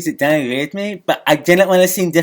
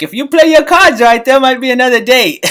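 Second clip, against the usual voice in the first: higher, louder cocky pickup line; cheesy smooth talker; 7 semitones higher, 4 dB louder than usual. Retold or imitated. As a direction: deliver it as a corny charmer.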